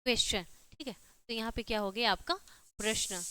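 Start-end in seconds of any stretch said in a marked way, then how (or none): 0.0-0.5 क्वेश्चन pronounced "kwes-chan"; teacher's demo of क्वेश्चन with the "ch" sound. Shown as a demonstration. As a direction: say क्वेश्चन with a ch where the T is. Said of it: "च होता है".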